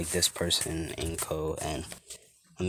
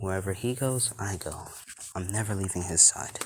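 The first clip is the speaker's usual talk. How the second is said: plain reading voice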